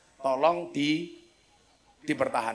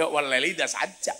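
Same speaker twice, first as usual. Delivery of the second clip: Javanese accent. Shown as a demonstration. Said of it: "baca Quran pakai logat Jawa".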